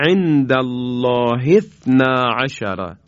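عند الله اثنا عشر said slowly, with اثنا joined to the word before; Quranic recitation demo. Shown as a demonstration.

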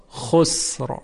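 slow خسر with a heavy final R. Shown as a demonstration. Teacher giving another tafkhim example, heavy R in خسر. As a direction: draw out خسر and thicken the R.

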